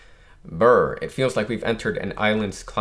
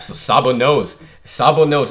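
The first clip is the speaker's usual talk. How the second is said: excited realisation; 3 semitones higher, 8 dB louder than usual. Real, not acted. Shocked realisation about manga twist.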